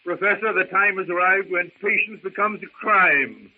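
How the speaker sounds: stiff, offended challenge; indignant. Acted. Philander answering the professor's jibe about running from the lion, indignant. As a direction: bristle with wounded pride.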